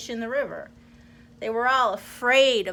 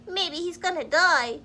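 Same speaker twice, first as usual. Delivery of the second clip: higher chirpy bird voice; chirping blackbird; 6 semitones higher than usual. Acted. Blackbird guessing the crocodile's fate, higher chirp. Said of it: "chirped a blackbird".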